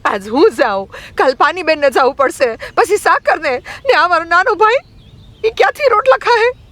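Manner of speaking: put-on very high, protesting girl's voice; acted outraged young girl pleading her case; indignant retort. A narrator's reading. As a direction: fire back aggrieved questions in a high pitch. Girl angrily answers back the elder.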